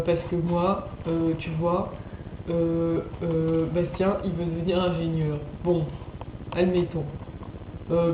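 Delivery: imitation moqueuse légère, hésitante, pleine de « euh »; imitation de Johan. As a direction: mimic a calm rambler padding with blablas. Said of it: "un Johan très calme qui parle avec un ton". (imitation calme et hésitante de Johan)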